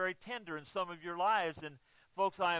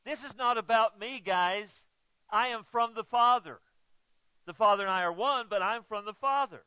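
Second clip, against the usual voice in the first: louder, driving pulpit emphasis; insisting to the church, louder; emphatic preaching; 2 semitones higher, 5 dB louder than usual. Acted. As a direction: hammer each from the Father. Emphatic sermon point.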